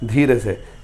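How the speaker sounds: soft, low aside; quietly, discreetly. Shown as a demonstration. Teacher advising pupils to sneak the last line, hushed. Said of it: "चुपचाप से बोल देना, धीरे से".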